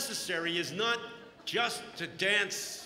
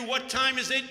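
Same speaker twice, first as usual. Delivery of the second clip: louder rallying question; call to the crowd; 2 semitones higher, 5 dB louder than usual. Shown as a demonstration. Preacher prompting the congregation, loud call. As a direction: rouse them like a cheerleader. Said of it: "you're gonna yell back what".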